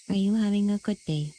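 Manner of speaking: flat robotic voice. Pretend. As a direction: speak like a robot. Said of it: "I sound like a robot".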